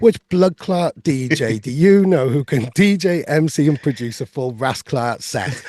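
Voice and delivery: lightly put-on Welsh accent reading the line; a hint of a Welsh accent for comic effect. Shown as a demonstration. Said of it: "I'll say them in my Welsh accent".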